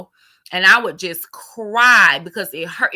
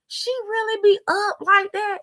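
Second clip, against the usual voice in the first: inner disbelief; 12 semitones higher, 4 dB quieter than usual. Retold or imitated. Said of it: "sitting up there like".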